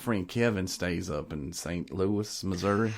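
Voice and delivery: slow Southern redneck drawl; redneck accent. Acted. Telling hosts about friend Kevin, slow redneck drawl. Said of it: "He does the redneck".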